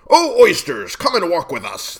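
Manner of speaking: high, loud theatrical walrus call; beseeching walrus. A narrator's reading. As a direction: coax them along as a pleading walrus. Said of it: "the walrus did beseech".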